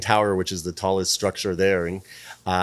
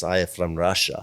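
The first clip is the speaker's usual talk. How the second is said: bad Russian-Ukrainian accent; 4 semitones lower, 4 dB quieter than usual. Client tells publicist her origin, mock Russian accent. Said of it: "this is gonna be the worst accent".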